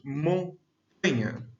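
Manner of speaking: "montanha" slowly broken as MON, pause, TANHA; syllable demonstration. Shown as a demonstration. Teacher showing which syllable stands out, "montanha" slowly split. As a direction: draw out "montanha", setting TAN apart after a gap. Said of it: "o tan, a sílaba tan, ou tá, se destaca".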